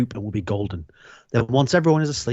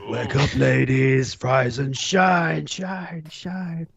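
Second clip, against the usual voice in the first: echoing whisper; much slower than usual. Acted. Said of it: "He hears a faint whisper".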